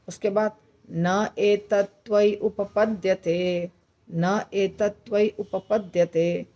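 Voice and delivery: shloka recited slowly, phrase by phrase; slow recitation. Shown as a demonstration. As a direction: recite the verse slowly, pausing between phrases. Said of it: "अब मैं बोलकर सुनाती हूँ". (श्लोक का धीमा, रुक-रुक कर पाठ)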